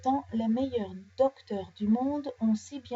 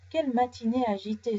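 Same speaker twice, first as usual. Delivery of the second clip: sighing; faster than usual. Acted. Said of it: "soupire Nounours".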